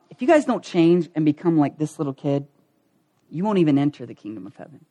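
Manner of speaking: low, measured gentle rebuke; patient correction. Retold or imitated. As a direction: voice a teacher quietly setting them straight. Jesus gently corrects arguing disciples.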